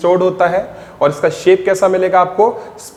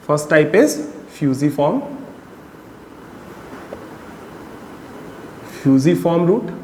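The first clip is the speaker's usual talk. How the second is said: slow dictation; 3 semitones lower, 6 dB quieter, much slower than usual. Shown as a demonstration. Teacher dictating notes to class.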